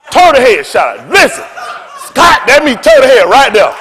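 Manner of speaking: loud, high laughing exclamation; loud laughing outburst; laughing shout. Retold or imitated. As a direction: laugh it out loudly at the memory. Recalling terror, laughing loud.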